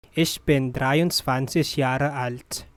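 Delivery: measured, every syllable clear. Shown as a demonstration. Teacher repeats slowly for learners.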